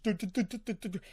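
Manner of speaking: quick repeated little blips; imitated button beeps. Showing classmates messing with the treadmill, imitated beeping. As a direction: mimic fiddling with machine buttons.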